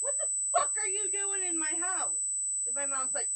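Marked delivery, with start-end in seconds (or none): 0.0-2.2 outraged yell. Retold or imitated. Daughter confronting bully over coffee, high outraged yell. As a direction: confront the intruder at full indignation.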